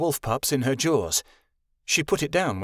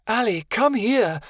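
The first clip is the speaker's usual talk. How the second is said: calling out; 9 semitones higher, 3 dB louder than usual. A narrator's reading. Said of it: "Vera called from the floor".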